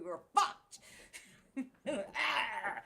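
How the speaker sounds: words breaking into laughter; laughing despair. Real, not acted. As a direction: laugh through the bad news.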